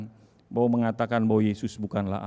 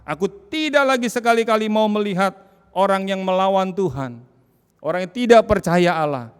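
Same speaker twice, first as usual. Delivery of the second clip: loud, high horrified exclamation; shaken nurse; 8 semitones higher, 8 dB louder than usual. Retold or imitated. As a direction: swear it off in horror. Nurse's horrified testimony quoted.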